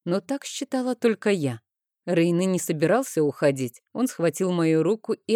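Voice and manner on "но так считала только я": plain reading voice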